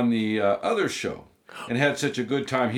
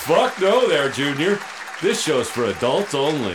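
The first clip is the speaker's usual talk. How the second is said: gruff host reply; 2 semitones higher, 5 dB louder than usual. Acted. Answers the kid gruffly.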